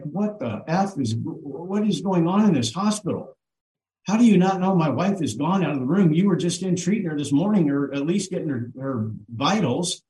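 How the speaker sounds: indignant questioning, understated anger; retold incredulous outrage. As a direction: retell confronting staff in disbelief, mildly heated. Retold angry challenge to hospital staff.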